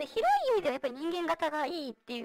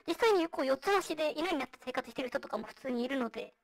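vocoder; 2 semitones lower than usual. Real, not acted. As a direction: voice changer voice. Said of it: "今私がやってるようにボイスチェンジャー使ってる". (ボイスチェンジャーの声)

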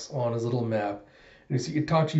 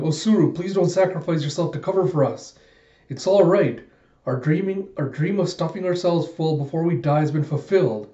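acted plea; 4 semitones higher than usual. Citizens plead with Osuru.

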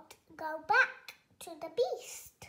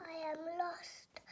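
quiet lost voice; 6 dB quieter than usual. Acted. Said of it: "he said".

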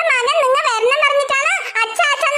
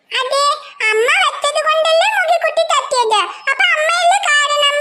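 lightly voiced little girl. Child voice blaming mother again.

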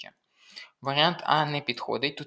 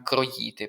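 "кроїти" with the stress wrongly on the second syllable, ї. Shown as a demonstration. Tutor naming the only error, "кроїти" wrongly stressed on ї. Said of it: "неправильно тільки наголос у слові".

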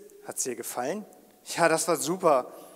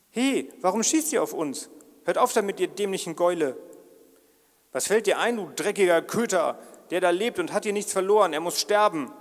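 angry yelling; 5 dB louder than usual. Acted. Angry quarrel with the archers.

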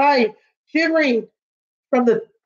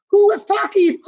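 high startled call; sudden surprised cry; startled shout; 7 semitones higher than usual. Acted. Animals startled.

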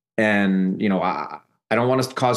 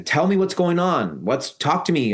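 imitating an exasperated aunt, pitched up; higher, drawn-out demand, mildly mad; retold annoyance; 6 semitones higher than usual. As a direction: press for an answer, mock-exasperated. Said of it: "She was, like, mad at me".

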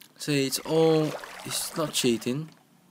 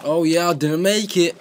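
frustrated outburst; 5 semitones higher, 10 dB louder than usual. Real, not acted. Fails the jump, frustrated.

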